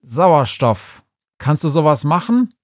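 loud, urgent question; richiamo concitato. Acted. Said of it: "rief er".

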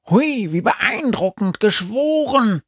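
hoch, spöttisch und zu laut; sarkastisch. A narrator's reading. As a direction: ironisch beeindruckt tun. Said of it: "erwidert Sami erneut viel zu laut". (spöttisch zu laut)

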